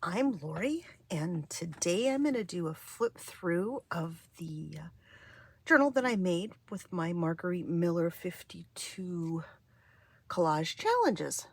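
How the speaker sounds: hoarse, weak-voiced delivery. Real, not acted. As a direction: speak through a tired, hoarse voice. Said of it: "a little weak of voice".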